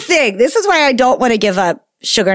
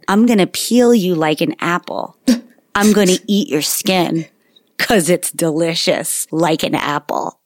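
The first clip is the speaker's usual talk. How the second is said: deadpan; 4 semitones lower than usual. Retold or imitated. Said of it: "in a completely deadpan tone".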